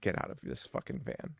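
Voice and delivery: halting, hushed stammer of fear; mock terrified whisper, stumbling over I; panicked whisper. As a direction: whisper it like you're trapped and scared. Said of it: "You gotta be like".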